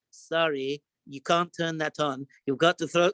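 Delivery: a nervous kosher supervisor barely daring to object; timid little mashgiach. Retold or imitated. Timid mashgiach stops the chef.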